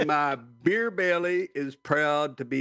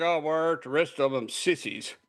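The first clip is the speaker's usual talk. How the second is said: ordinary talk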